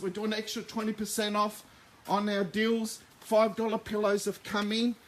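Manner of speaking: talking while out of breath; breathless from rushing around setting up; short of breath. Real, not acted. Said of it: "Sorry, I'm short of breath here".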